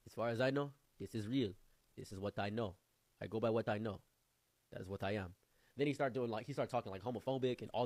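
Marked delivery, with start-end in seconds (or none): 0.1-5.3 put-on measured African accent; imitated African friend. African friend standing by what he knows, imitated accent. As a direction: state it simply in a mild African accent. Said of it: "And he said".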